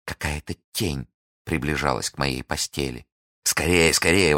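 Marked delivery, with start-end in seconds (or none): 3.4-4.3 urging her, understated; скорее said twice, lightly pressing; mild exclamation. Acted. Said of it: "воскликнул Фельтон".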